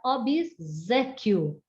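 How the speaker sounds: "obséquio" with the S voiced as Z; som de Z. Shown as a demonstration. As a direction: say "obséquio" as ob-ZÉ-quio. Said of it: "assimilamos o som de Z". ("obséquio" com S soando como Z)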